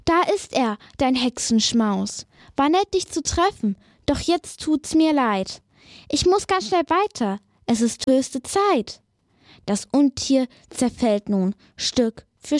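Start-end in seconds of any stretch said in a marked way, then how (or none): 0.1-9.0 higher, hasty scared dragon voice; nervous dragon. Acted. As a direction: back off nervously. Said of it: "Schnell sagt er".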